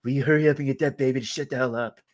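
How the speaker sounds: fast, impatient imitation of him; quick lightly mocking impression; mock Trump demand. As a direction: rattle off a callous demand. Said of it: "He's like".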